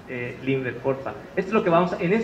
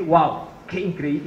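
slowed, drawn-out wow; light mock amazement; amazed wow; slower than usual. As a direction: savour the wonder of it. Imagined diner's amazement.

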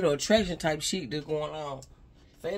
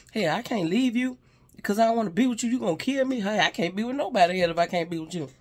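mock controlling partner; 3 semitones higher, 5 dB louder than usual.

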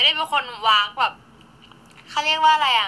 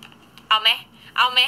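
snippy taunt; 3 dB louder, much slower than usual. Shown as a demonstration. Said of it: "วากสไตล์แบบจิกๆ".

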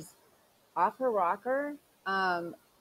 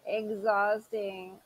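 laughed out; much slower than usual. Real, not acted. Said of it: "this hurts".

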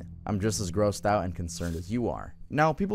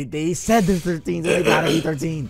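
sarcastic; 7 semitones higher, 7 dB louder than usual. Acted. Mocking a fake age claim.

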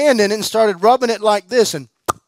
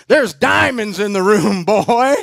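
David Hogan's way of talking; 3 semitones higher, 4 dB louder than usual. Retold or imitated. Preacher answering a question with a louder, hearty voice. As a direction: sound like the old preacher calling you boy. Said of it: "that's how he talks".

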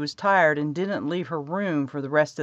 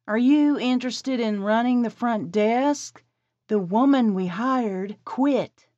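higher woman's voice; 6 semitones higher than usual. Acted. Esperanza voiced by narrator.

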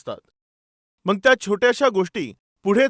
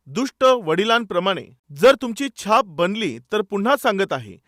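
usual speaking voice

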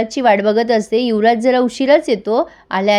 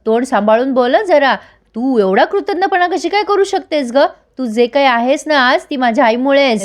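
retold anger; 3 semitones higher than usual. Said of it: "आता मात्र सत्या चिडतो".

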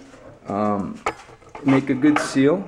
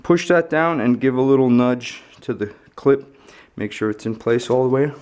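flashlight in mouth. Real, not acted. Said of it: "with the flashlight in my mouth so I can't talk".

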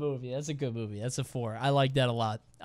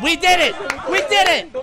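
higher, louder gleeful cheer; mock triumph; 9 semitones higher, 5 dB louder, faster than usual. Cheering on behalf of the balloon pranksters, mock triumph. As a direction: celebrate like one of the pranksters.

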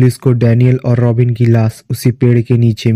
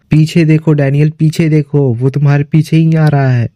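higher-pitched, urgent call to look behind; acted insistent warning; 4 semitones higher than usual. Robin warns Daniel of someone behind him, acted urgent call. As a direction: press the warning with mild alarm. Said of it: "बार बार कैमरे में देखकर यही बोल रहा था".

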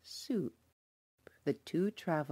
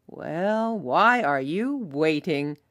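louder eager call; cried out; 7 dB louder, slower than usual. Acted. Travelers urging villagers to hurry, loud. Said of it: "cried the travelers".

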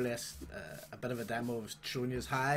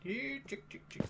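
high coaxing call; calling chickens; 11 semitones higher, 5 dB quieter than usual. Real, not acted. Player calling chickens, high coaxing call. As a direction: coax the chicks over in a high voice.

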